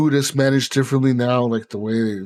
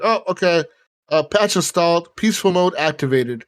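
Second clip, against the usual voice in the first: robotic announcement; 6 semitones higher than usual. Retold or imitated. Retelling the gun's announcement.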